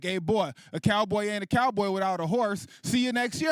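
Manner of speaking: lightly voiced pimp dad; seventies pimp. Pimp dad's yearly advice to his son, seventies pimp talk. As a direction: toss off jive wisdom like a pimp. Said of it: "seventies pimp dialogue".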